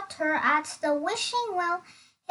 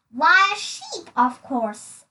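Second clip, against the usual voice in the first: confident answer; 5 dB louder than usual. Acted.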